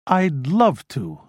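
slow, overly earnest agreement; feigned sincerity. Acted. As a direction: sound sincere while hiding reluctance. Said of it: "with a sincerity that he believed masked".

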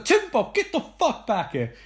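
high-pitched mock mum calling; calling out crossly. Mum calling Tim Bob back, mock scolding.

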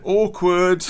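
cracking up at the awkwardness; laughing. Real, not acted. Teller cracks up recalling the awkward moment, laughing. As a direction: break into real laughter.

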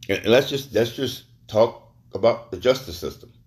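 talking while chewing crackers; words round a mouthful of crackers; mouth full. Real, not acted. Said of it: "Sorry, I'm still eating the crackers".

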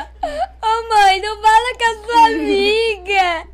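manha chorosa e aguda de criança; sofrendo. Retold or imitated. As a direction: imitar criança implorando em choro. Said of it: "eu sofrendo". (choramingo encenado)

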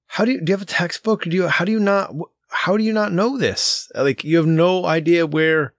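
retold frustration with a child; exasperated. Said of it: "I get all angry about it".

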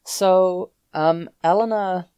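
character voice. Acted. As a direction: slip into the character's voice. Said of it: "I was doing all that in character voice".

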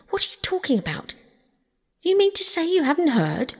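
high, incredulous questioning; greatly excited. A narrator's reading. Rat finds that Toad hasn't heard, excited disbelief. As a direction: press him in astonishment. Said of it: "greatly excited".

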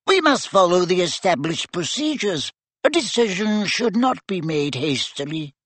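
high, squeaky little professor; tiny wizard squeaking up at colleagues. A narrator's reading. Tiny professor urging the staff, high and squeaky. Flitwick's voice held.

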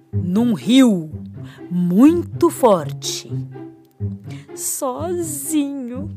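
slow, drawn-out suspense telling; suspenseful storytelling. Acted. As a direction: build the jungle tension slowly. Suspenseful scene-setting for children. (narração de suspense)

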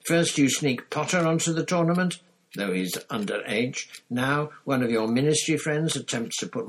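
loud, high-pitched accusing tirade; bellowed outrage. A narrator's reading. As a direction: livid ranting, hammering out each accusation. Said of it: "he bellowed".

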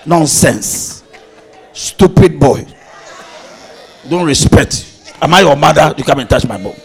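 a pastor mimicking a wife scolding her husband; mock scolding wife. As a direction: scold him like a naughty boy. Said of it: "When she touched the bum".

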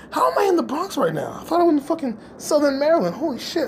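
high, agitated disbelief; hammed-up high-pitched confusion; mock bewilderment. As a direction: blurt it out baffled, then bail. Bewildered at being in Bronx.

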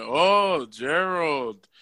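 a lightly voiced calm teacher; a hint of a patient teacher explaining; Mister Geronimo impression. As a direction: play the reasonable teacher, only lightly. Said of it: "it sounded something like".

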